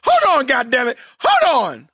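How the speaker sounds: high, loud shouted interruption; exasperated yelling over someone. Real, not acted. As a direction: shout to stop the other speaker. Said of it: "Donald's loud voice".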